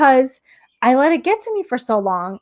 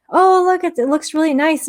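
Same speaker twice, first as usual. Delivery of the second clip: playfully quoting her husband's cheerful remark; imitating impressed husband; 6 semitones higher than usual. Retelling how husband admired the neighbors' new house, mock impressed. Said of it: "Jeff was like".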